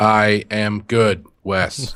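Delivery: robotic, machine-like put-on voice. Answering a greeting from another speaker, playfully: robot voice. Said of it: "Are you gonna do the robot".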